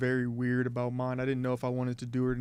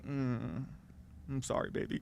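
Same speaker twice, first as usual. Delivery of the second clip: tender whisper; 8 dB quieter than usual. Retold or imitated. Apologising tenderly to his dog.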